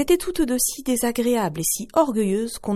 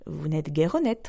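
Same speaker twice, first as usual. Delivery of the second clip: calm reproach; 3 semitones lower, 3 dB quieter than usual. Acted. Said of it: "sans se mettre en colère".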